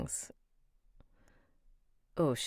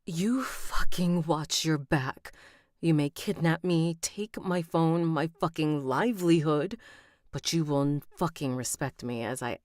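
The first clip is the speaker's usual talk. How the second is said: furious near tears. Acted. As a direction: spit it out, close to crying from anger. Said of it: "you're close to tears 'cause you're so mad".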